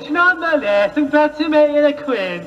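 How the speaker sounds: put-on Scottish accent. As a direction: proclaim it in a hammy Scottish voice. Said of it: "the worst Scottish accent".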